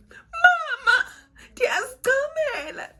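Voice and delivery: high, loud cry to mom; alarmed call. Retold or imitated. Calling out to mom when her water breaks.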